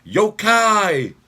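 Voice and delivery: high, loud ghostly wail; spooky call. Acted. Calling out spooky ghost word.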